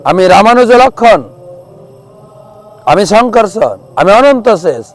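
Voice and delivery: high, loud boastful proclamation; proud declaration. Acted. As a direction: announce his divine identity grandly. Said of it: "বলছে". (গর্বিত ঘোষণা)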